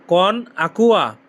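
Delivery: "কন আকুয়া" drawn out slowly; slow, careful model of "কন আকুয়া"; slow demo. Shown as a demonstration. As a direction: stretch "কন আকুয়া" for learners to copy. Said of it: "এর Italian কি হবে?".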